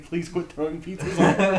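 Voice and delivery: reading a sign through laughter; laughing while quoting. Retold or imitated. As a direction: quote the sign, cracking up. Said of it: "put signs there saying".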